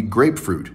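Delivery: "grapefruit" with GRAPE and FRUIT weighted equally; equal stress. Shown as a demonstration. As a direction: give both syllables of "grapefruit" the same weight. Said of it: "the weight is equal".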